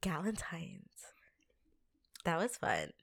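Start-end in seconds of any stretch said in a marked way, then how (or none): 0.0-0.9 breathy whisper. Real, not acted. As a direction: whisper the name. Whispered episode name.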